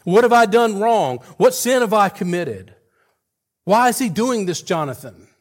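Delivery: high, loud desperate pleading; a hunted man crying out, high and loud; anguished cry. Acted. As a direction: cry out to your friend, begging to know why. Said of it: "David cries out to Jonathan".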